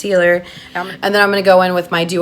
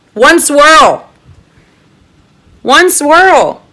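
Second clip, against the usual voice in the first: high, loud and amazed; can't believe one swirl did that; gushing excitement; 9 semitones higher, 8 dB louder, much slower than usual. Real, not acted. Gushing to viewers about one swirl, thrilled.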